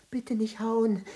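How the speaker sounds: whispered plea; frightened whisper. Acted. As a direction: beg under your breath.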